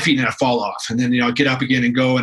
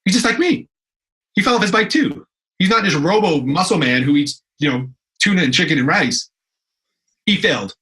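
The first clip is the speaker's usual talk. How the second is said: viewer's reaction; 4 semitones higher than usual. Retold or imitated. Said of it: "they're like".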